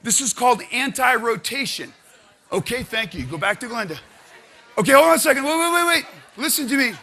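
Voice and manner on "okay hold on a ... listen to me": louder, higher call for attention. Real, not acted. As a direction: stop the noisy room. Calling a noisy class to order.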